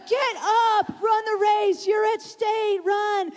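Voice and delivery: mock sideline yell, not full volume; scolding dad. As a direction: urge them on like a scolding parent. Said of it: "It sounded like he was scolding me".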